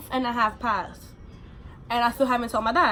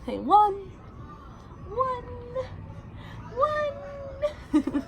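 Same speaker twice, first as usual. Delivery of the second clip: laughing while counting; 14 semitones higher, 4 dB quieter, much slower than usual. Real, not acted.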